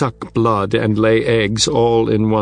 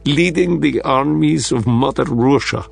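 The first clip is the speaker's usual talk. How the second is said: put-on Russian accent; 2 semitones higher than usual. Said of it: "in a thick Russian accent".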